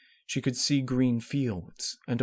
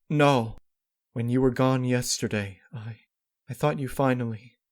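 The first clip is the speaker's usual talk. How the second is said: pleading denial; 4 semitones higher, 5 dB louder than usual. Acted. Denial, breaking off.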